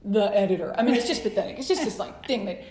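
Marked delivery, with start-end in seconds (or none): 0.0-0.8 a hint of a stiff editor reading; mock form letter. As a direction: read it like a stuffy rejection form. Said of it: "when it's a form letter".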